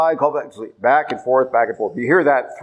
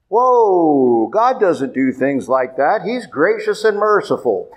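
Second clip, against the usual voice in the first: shocked protest; 3 semitones higher than usual. Acted. Preacher voicing a listener who objects to God's judgment, shocked protest. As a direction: play a scandalized believer, pitch lifting high. Voices an objector, then answers it.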